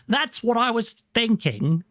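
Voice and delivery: imitating an eager, high-pitched reaction; excited quote. People hearing the speaker's accent explained, imitated excitedly.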